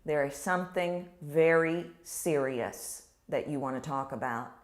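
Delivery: dropped low, serious tone. Shown as a demonstration. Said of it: "use the lower register of your voice".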